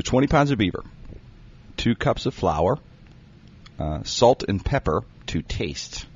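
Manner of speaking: slowly spelled out for note-takers; slow dictation. Shown as a demonstration. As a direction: read it slowly, word by word, so people can write it down. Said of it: "I'll say it slow".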